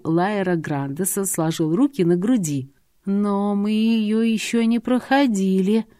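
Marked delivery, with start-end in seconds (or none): 3.0-5.8 flustered, hopeful. Acted. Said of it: "растерянно ответила я с надеждой".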